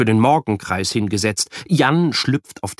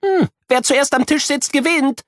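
higher, mock racing call; playful shout. A narrator's reading. Friend challenges the boy to a race, playful shout. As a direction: dare him to race to the table. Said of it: "schreit Kuno".

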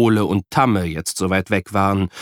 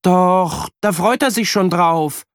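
higher, lightly voiced happy child; eager boy; 9 semitones higher, 3 dB louder than usual. A narrator's reading. Boy tells mother his friend looks forward to it, eager. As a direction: answer brightly for your friend. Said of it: "sagt Jan".

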